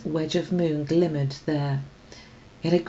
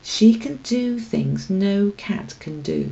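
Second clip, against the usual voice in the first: darkly; 4 semitones higher, slower than usual. Acted. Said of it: "said Tam darkly".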